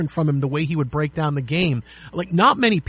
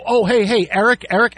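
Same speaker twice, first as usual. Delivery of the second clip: mock-calling a colleague across the room, a bit louder; friendly ribbing shout at the table; teasing call-out; 4 semitones higher, 4 dB louder than usual.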